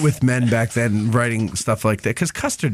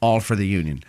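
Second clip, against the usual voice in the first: 1930s radio announcer; 4 semitones higher than usual. Pretend. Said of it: "like, a nineteen thirties radio person".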